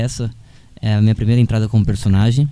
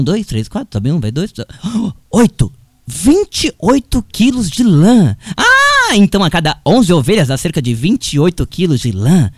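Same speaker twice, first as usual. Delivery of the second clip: put-on fretful shepherd boy working sums; young shepherd role; 3 semitones higher than usual. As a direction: play the flustered son counting. Acts his first scene.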